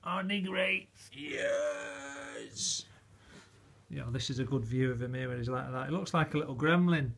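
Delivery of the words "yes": high squeaky puppy answer. Pretend. Voicing the puppy.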